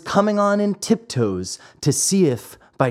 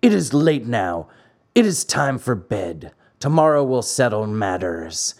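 understated rough order; rough farmer; 3 semitones lower than usual. Acted. Farmer pins the puppet down, mildly rough. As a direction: give the order a touch roughly. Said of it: "said to him roughly".

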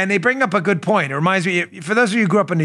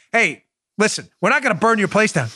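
mobster reassurance; 5 semitones higher than usual. Retold or imitated.

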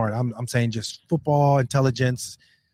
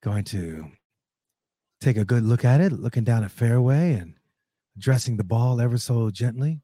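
hushed golf play-by-play; golf commentator. Pretend. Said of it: "Q going play by play right now".

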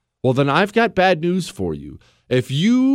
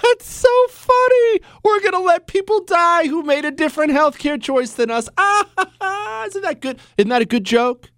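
hammed-up mocking laugh, pitched much higher; sarcastic fake laughter; 12 semitones higher than usual. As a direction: cackle at the joke with exaggerated scorn. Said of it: "I'm laughing so hard".

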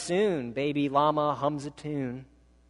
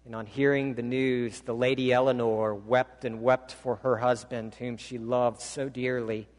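story narration; 2 semitones lower than usual. A narrator's reading. Story told in sermon.

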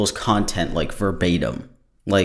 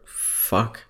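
a frustrated whispered "fuck" under the breath; whispered curse; 3 semitones higher, 5 dB quieter than usual. Real, not acted. Fumbling the host's name, a whispered curse to himself. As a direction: hiss it to yourself after fumbling. Trips over the name again.

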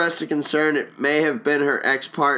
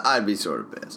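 laughing; 4 semitones lower, 3 dB quieter than usual. Real, not acted. Laughing while answering.

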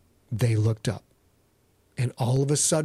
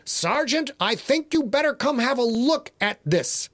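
put-on a raised, uneasy young sailor calling his boss over; worried sonar operator; 7 semitones higher than usual. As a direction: pitch it up, urgent but keeping it down. Sonar man calls the sergeant.

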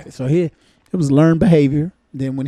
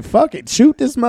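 quick, higher mock plea; a hint of the girl begging the cop; imagined victim; 8 semitones higher, 4 dB louder, faster than usual. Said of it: "that girl probably was like".

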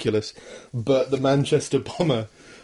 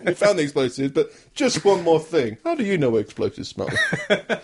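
Columbo impression; 4 semitones higher than usual. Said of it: "they sent Columbo in for".

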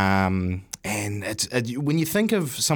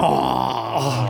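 higher, wobbly scared gasp; nervous squeak; 4 semitones higher than usual. Retold or imitated. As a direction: gulp it out, frightened. Nervous plea continues.

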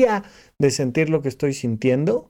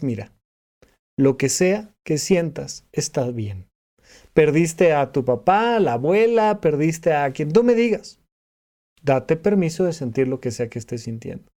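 gentle reassurance; 2 semitones lower than usual. Retold or imitated. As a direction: ease a grieving person into permission to feel. Rafa's advice to grieving clients.

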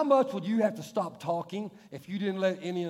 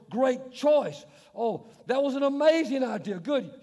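mock gushing waiter; 6 semitones higher, 6 dB louder, slower than usual. Waiter flattering customer.

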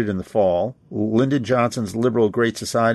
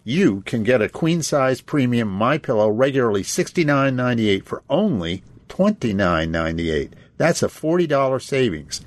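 upbeat sponsor read, selling the deal; talk-show host reading a mattress ad; radio ad read. Acted. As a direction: pitch the pillow sale like a live radio spot.

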